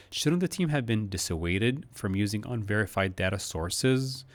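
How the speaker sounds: tune rises on "data sources". Shown as a demonstration. Teacher models rising tune on "data sources". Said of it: "when I say data sources, I go up".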